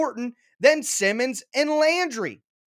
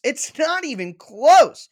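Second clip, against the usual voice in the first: higher and louder, hammering it home; emphatic verdict; 6 semitones higher, 6 dB louder, slower than usual. Real, not acted. Podcaster to Titans fans, louder and higher emphatic repeat. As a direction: punch the repeat hard.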